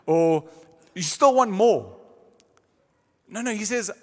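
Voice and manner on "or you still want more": lightly acted weariness, as if asked once too often; mock exasperated sigh. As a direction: imitate a grudging giver. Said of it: "He's not gonna sigh and say".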